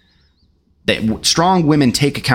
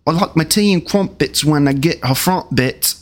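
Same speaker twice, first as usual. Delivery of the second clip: mock British rap, higher pitched; silly British accent; 5 semitones higher than usual. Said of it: "anyone with an accent like that".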